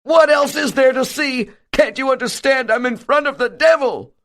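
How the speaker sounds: high, bitter contempt; loathing. A narrator's reading. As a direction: spit it back in disgust. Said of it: "with loathing".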